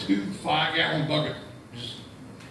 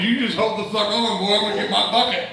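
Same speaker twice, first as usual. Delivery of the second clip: louder, a bit higher, hurried; eager farmer shout; 4 semitones higher, 5 dB louder than usual. Acted. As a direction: cut him off, suddenly eager. Farmer eagerly stops the boy.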